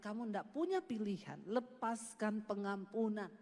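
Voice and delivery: lightly voiced God insisting gently; a hint of a stern, calm God. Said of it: "Tuhan bilang".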